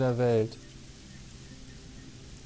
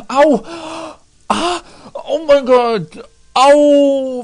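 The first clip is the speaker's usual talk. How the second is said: high loud mock ouch cries; mock pain cries; 13 semitones higher, 13 dB louder, much slower than usual. Lacht über Treffer in Eier. (laute gespielte Schmerzensschreie)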